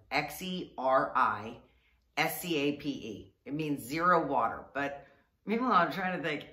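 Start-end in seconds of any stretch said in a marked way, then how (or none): 0.1-3.3 letter by letter, slow; spelled out slowly. Shown as a demonstration. Spelling the garden name out letter by letter. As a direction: spell it out for a friend. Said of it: "what's called a Xeriscape Garden".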